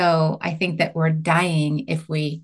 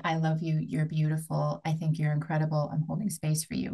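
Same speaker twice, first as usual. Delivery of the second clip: gentle self-affirmation; 8 dB quieter than usual. Retold or imitated. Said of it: "walk in front of the mirror and say".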